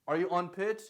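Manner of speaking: nasal, pinched take of the line; nasal demo. Shown as a demonstration. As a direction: sing it through the nose. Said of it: "when you start to sound nasally".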